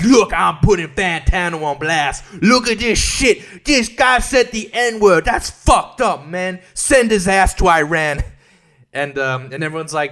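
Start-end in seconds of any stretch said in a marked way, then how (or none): 0.0-8.2 slow, drawn-out mock rant; mocking Fantano impression. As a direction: imitate him putting someone on blast. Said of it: "He's like".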